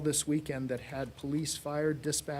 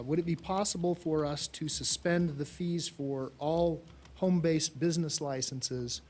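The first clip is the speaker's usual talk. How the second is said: ordinary delivery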